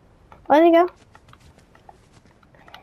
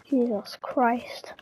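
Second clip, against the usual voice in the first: slow breathy whisper, much softer; shaken whisper; 10 dB quieter, much slower than usual. Real, not acted. Player recovering from the scare, slow shaken whisper. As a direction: breathe it out, still rattled. After the monster stared at him.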